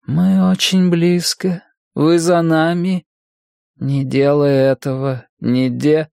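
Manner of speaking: sing-song voices over radio; strange radio voice. A narrator's reading. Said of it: "короткие всплески голосов звучали странно, походили на пение".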